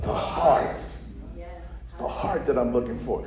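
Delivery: quiet turn after the climax; soft preaching. Acted. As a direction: pull it down to an intimate hush. Sudden drop after climax.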